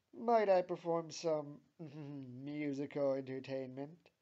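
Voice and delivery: eager, hammed-up question; curious. A narrator's reading. Jean offers to perform music, curious. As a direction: open loud with a hopeful flourish. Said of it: "asks Jean curiously".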